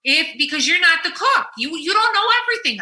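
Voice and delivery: wife teasing husband that she is the cook; laughing mock scold. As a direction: lay down the law while laughing. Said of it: "I said to him".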